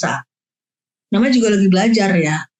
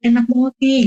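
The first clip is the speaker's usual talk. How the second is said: put-on higher, lively yum for the child; showing it's tasty; 4 semitones higher than usual. Shown as a demonstration. Parent modeling tasty food to a child, higher and lively. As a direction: sell the food with your face and voice. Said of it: "mimik muka kita".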